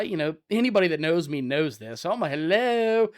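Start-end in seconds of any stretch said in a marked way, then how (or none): 2.3-3.1 high-pitched questioning call; loud calling out. Retold or imitated. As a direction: call out to see who's there. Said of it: "I'm a loud guy".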